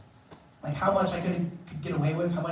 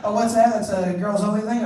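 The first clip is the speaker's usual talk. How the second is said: mock surprised realisation; 3 semitones higher, 7 dB louder than usual. Teacher correcting.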